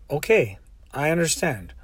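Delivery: soft, patient acknowledgement; calm reassurance. Retold or imitated. Driver placates a sobbing passenger, calm and soft. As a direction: quietly humour someone upset.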